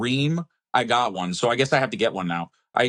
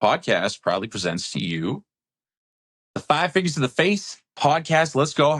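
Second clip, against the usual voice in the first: booming showman announcer intro; ringmaster. Pretend.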